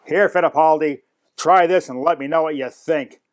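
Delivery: lightly voiced gruff peace offering; imitated shop owner. Shop owner handing the narrator a cigar, brusquely imitated.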